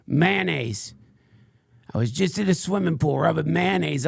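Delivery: lightly voiced crank ranting about the sun; a hint of a paranoid conspiracy ranter; Frank Blanders. Fringe podcaster rants to his followers, lightly put-on crank voice. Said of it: "what you just heard was, uh, um, Frank Blanders".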